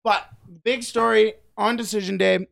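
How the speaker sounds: talking right after swallowing a fly; words caught by a fly in the throat; just swallowed a fly. Real, not acted. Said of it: "I think I just swallowed a fly".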